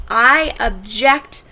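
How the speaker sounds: "object" stressed on the second syllable, ob-JECT; slow careful ob-JECT with the stress at the end; verb stress obJECT. Shown as a demonstration. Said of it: "Notice I pronounced them different".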